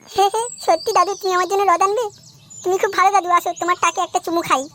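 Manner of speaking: put-on a kid thrilled about a present; delighted child. Grandson thanking grandfather, high and gleeful.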